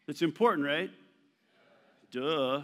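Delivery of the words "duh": put-on drawn-out teenage "duh"; teenager. Shown as a demonstration. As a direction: say it lightly like a teenager stating the obvious. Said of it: "You can say it like a teenager".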